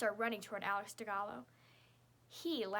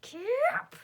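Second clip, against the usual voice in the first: high, loud battle cry; sharp martial-arts shout; scream; 13 semitones higher, 12 dB louder than usual. A narrator's reading. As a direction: yell the kick out. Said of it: "someone screams".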